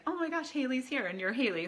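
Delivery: moved to tears by her niece's memory; tearful. Real, not acted. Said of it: "it makes me tear up".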